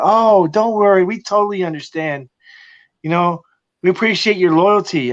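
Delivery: chipper customer service voice. Retold or imitated. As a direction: play the overly polite team rep. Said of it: "They're like".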